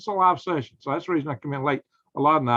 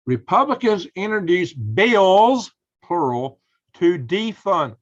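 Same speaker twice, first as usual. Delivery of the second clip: outraged headline read; 4 semitones higher, 6 dB louder, slower than usual. Real, not acted. Reading outrageous headline to viewers.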